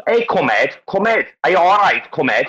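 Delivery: high, punchy Scouse catchphrases; Scouse accent demo. Shown as a demonstration. Coaxing a mate into trying it, Scouse accent. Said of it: "get him to do Scouse".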